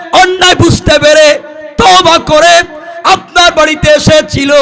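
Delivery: very high, loud, sustained declamation; full-force preaching. Acted. Preacher telling of a repentant youth coming to the Prophet, high full-force preaching. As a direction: cry out each phrase at the top of the voice.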